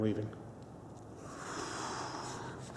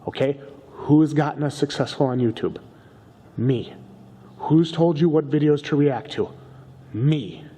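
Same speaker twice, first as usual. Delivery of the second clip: insistent bragging; 4 semitones higher, 4 dB louder than usual. Acted. Arguing partner over YouTube credit.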